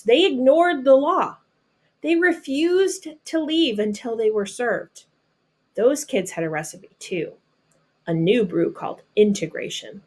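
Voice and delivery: expressive storybook reading voice; reading to children. Acted. Teacher reading a picture book to her students, storybook narration. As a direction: read it like a picture book to a class.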